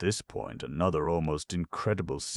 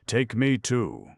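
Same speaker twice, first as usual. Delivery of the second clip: loud, higher, slow gleeful plea; reckless glee; 8 semitones higher, 7 dB louder, slower than usual. A narrator's reading. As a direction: beg in a giddy rush. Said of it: "he kept shouting, laughing a thin, mirthful laugh".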